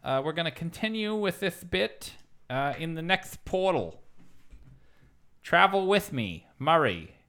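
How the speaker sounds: lightly lisped host voice; a hint of a lisp, pompous; lisping interdimensional guide; Murray's lisp. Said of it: "It's really hard to do a lisp for this long".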